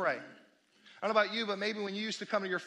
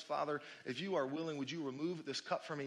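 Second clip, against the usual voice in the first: soft prayer; 7 semitones lower, 9 dB quieter than usual. Acted. Voicing Jesus's prayer gently.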